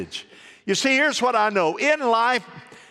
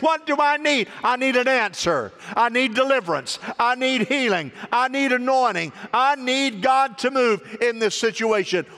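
higher-pitched preaching cadence; insistent declaration; 4 semitones higher than usual. Acted. Preacher voicing a believer who needs God to move, insistent. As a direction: pile up each need as an urgent plea.

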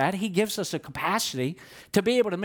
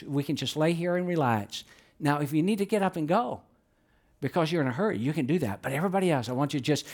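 soothing voice; faster than usual. Retold or imitated. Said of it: "in a very soothing voice".

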